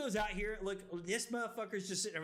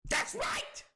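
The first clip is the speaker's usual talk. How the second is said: mock DiCaprio line. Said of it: "just like Leonardo DiCaprio".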